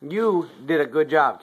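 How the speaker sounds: put-on high, bright praise for a toddler; sing-song praise, slow and high; kindergarten teacher voice. Praising a small child counting.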